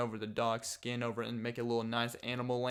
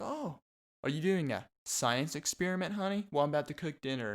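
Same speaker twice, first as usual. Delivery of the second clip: much higher, sing-song clueless mother, rushing the end; oblivious mom; 4 semitones higher than usual. Retold or imitated. Vlogger imitating a mother talking to her son at the kitchen table, clueless and higher. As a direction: play a cheery mom who notices nothing. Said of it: "You're like".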